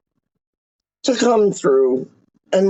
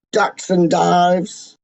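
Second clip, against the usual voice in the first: slow boxer patter; 3 semitones lower, much slower than usual. Pretend. Boxer ducking and diving.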